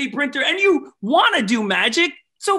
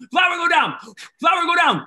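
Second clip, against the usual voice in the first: mock command; 3 semitones higher than usual. Commanding flower in magic trick.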